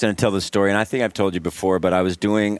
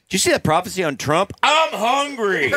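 laughing; 11 semitones higher than usual. Real, not acted. Laughing after burping talk.

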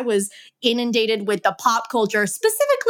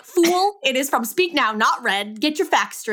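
pitched-up, mock-indignant correction; playfully outraged fan setting it straight; mock scolding; 3 semitones higher than usual. Host retelling correcting co-host on pop culture, mock indignant. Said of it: "And I was like".

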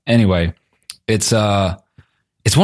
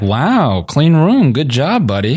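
higher, cheery boss praising a tidy room; mock middle manager praise; 5 semitones higher, slower than usual. Friend mocking a creepy vlogger inspecting rooms, in a mock middle manager voice. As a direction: play a middle manager patting someone on the back. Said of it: "I've never gone into my homeboy's room and been like".

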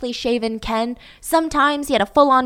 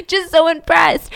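mock awe; 6 semitones higher, 5 dB louder than usual. Slow emphatic mock awe.

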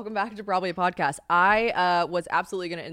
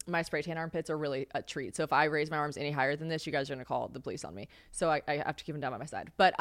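ordinary talk, nothing marked

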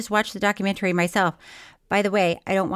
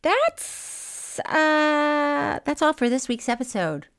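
overcome, drawn-out false start; choked-up sign-off; 6 semitones higher, much slower than usual. Real, not acted. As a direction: struggle to get the sign-off out. Overcome sign-off, redone normally later.

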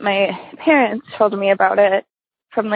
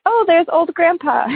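put-on child voice; 8 semitones higher than usual. Quoting herself as small child.

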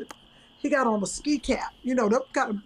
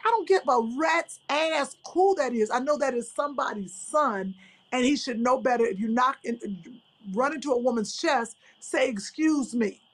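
mock-scolding auntie, slightly raised; auntie rant. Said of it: "I was yelling at him like a straight auntie".

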